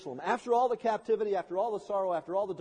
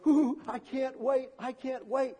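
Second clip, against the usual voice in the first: put-on higher-pitched childlike excitement; eager anticipation; 4 semitones higher than usual. Preacher voicing little hearts before Christmas, excited. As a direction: squeal lightly with impatient delight. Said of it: "There's little hearts beating all over the church".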